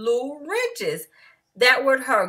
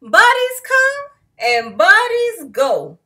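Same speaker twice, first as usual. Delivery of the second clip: cheery refrain; 4 semitones higher, 7 dB louder than usual. A narrator's reading.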